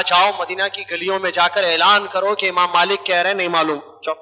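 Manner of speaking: low, grave imam voice; a hint of a calm old scholar; Imam Malik's reply. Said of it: "امام مالک رحمۃ اللہ نے کہا".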